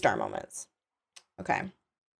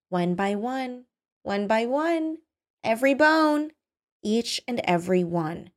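dreamy menace; 5 semitones higher than usual. Acted. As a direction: savour the threat phrase by phrase. Kidnapper savours her threat.

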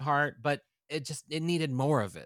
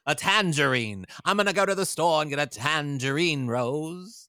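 louder mock Katharine Hepburn lilt; transatlantic accent; 3 semitones higher, 6 dB louder than usual. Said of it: "documentary about Katharine Hepburn".

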